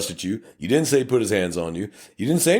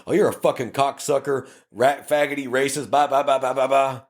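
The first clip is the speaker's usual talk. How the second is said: raised, ranting insults; abusive rant; 6 semitones higher than usual. Retold or imitated. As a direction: rattle off insults at a cop. Driver's abusive tirade at the officer.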